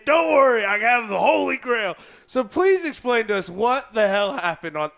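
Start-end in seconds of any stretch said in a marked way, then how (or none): 0.1-2.0 raised voice, mock-heroic ref; mock triumphant call. Host imitating the ref returning with rule book, mock triumphant call.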